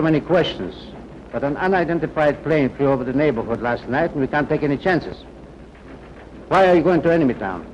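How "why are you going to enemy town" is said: suspicious. Acted. Guard pressing suspect.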